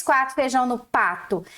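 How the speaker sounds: "feijão no pato" said with the R dropped from "pato"; wrong reading "pato". Shown as a demonstration. Teacher shows the pupils' mistake, saying "pato". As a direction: read "pato" without the R, as the mistake. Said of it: "vai ficar pato".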